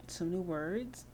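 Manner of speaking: drawn-out, slow, rising words; slow teaching. Shown as a demonstration. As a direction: spell it out slowly for a toddler. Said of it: "teach her some new".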